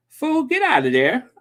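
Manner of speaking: hollering at Jed to get out; kinfolk yelling. Retold or imitated. A hillbilly cousin hollering at old Jed, mock yell. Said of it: "The kinfolk said".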